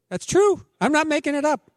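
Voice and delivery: high, loud laughing insistence; preacher insisting the story is real; insistent protest. Real, not acted. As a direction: swear it's true, half laughing. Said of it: "I know it sounds like one of my bad jokes".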